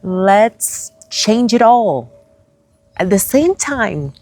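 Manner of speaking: high, loud, gleeful cosmic voice; playful universe voice. Pretend. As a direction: cheer like the universe pranking her. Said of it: "the universe was like".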